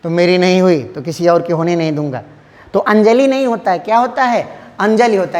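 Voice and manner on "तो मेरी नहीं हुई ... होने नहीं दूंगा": low, brooding filmi dialogue; film villain line. Retold or imitated. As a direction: deliver it like an obsessed film lover. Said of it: "उसमें कहता है". (धड़कन film के खलनायक की तरह धीमी, गहरी फ़िल्मी आवाज़ में)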